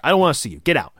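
yelling high and loud at the underling; barking him out of the room, hammed up; mock angry yell. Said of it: "He's like".

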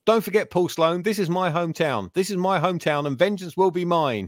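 a light imitation of screaming revenge into the camera; mock scream. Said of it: "he screams into the lens".

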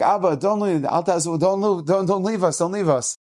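lightly voiced kids begging; a hint of little children clinging; pleading child. Children beg their father not to go to war, mild pleading.

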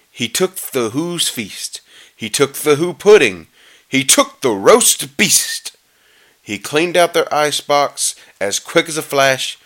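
measured rhyming read with drawn-out key words; storybook narration. A narrator's reading. Reader telling how the Grinch stole presents, storybook narration. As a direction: read the verse aloud, lingering on the stresses.

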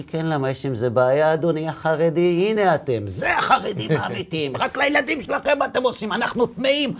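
high, laughing mock outrage; mock indignant friend. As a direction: play the offended secular friend half-laughing. Friend's indignant retort retold. (חיקוי נעלב וצוחק, בקול גבוה)

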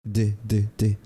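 isolated D sounds, released one by one; short separate English D bursts; final D sound. Shown as a demonstration. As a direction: tap out the bare D sound, separately. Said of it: "Esa es la pronunciación de la D al final".

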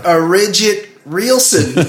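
laughing through a bad fake accent; mock Bridget Nielsen accent. Mocking the actress, laughing at the silly fake accent. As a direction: fumble a fake foreign accent, giggling. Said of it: "she's like".

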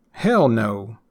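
"hell" jumps up, "no" falls away; stress on hell. Shown as a demonstration. Refusing a skydiving invitation, stress on "hell". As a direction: strike "hell" and drop down on "no". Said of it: "emphasis on that first word".

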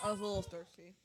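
mouth full. Real, not acted. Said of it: "I have ice in my mouth".

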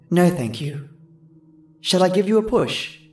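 put-on high, distant little girl voice; a hint of a ghostly girl; soft faraway girl. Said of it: "Her voice was soft and sounded far away".

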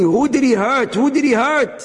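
high, puzzled asking; searching question. Retold or imitated. Husband wondering whom he hurt, high puzzled asking.

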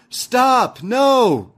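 high, loud retold cry of stop; hammed-up interruption yell; mock shout. Fallon bursting in to stop the kiss, mock shout.

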